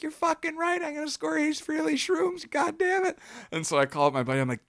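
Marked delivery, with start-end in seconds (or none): 0.0-3.2 thrilled yes. Retold or imitated.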